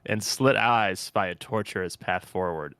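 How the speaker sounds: slow, measured recital; deliberate reading of eerie prose; dramatic text reading. Acted. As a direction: read it out like ominous verse. Reads the game's flavour text.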